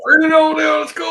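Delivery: P=A; excited cheer. Real, not acted. Echoing a friend loudly, laughing.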